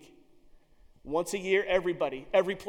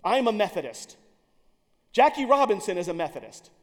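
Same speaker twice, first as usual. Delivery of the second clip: proud proclamation; 2 semitones higher, 9 dB louder than usual. Retold or imitated. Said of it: "is rumored to have said".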